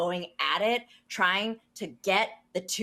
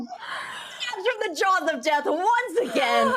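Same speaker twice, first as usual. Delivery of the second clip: high, loud, slow proclamation through laughter; elated, drawn-out holler; triumphant shout; 13 semitones higher, 5 dB louder, slower than usual. Real, not acted. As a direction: crow it over a last-second win. Player celebrates a narrow success.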